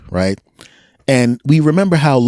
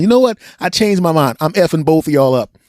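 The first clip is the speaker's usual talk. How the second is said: higher mock cop threat; 5 semitones higher than usual. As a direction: play the cop turning mean, pitched up. Cop quoted changing mind.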